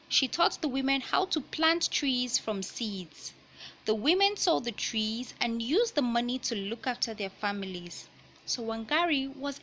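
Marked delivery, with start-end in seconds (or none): 0.1-8.1 picture book read-aloud voice; reading to children. Acted. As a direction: clear storybook narration.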